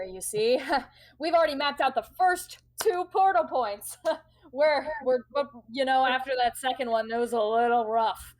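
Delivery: lively, chuckling boast; chirpy rival captain. Acted. Rival captain telling of her journey so far, chirpy. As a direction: brag breezily with little laughs.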